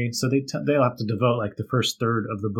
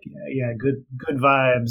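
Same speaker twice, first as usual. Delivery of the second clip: mock surfer bro; slower than usual. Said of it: "kinda California reggae bands".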